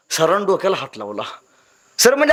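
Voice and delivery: usual speaking voice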